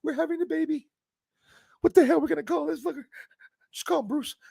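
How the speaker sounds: high, fast put-on voice of a blustering dad; mock dad voice. Retelling his birth, he voices his dad in a high, fast put-on voice. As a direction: ham up a gruff father naming the baby.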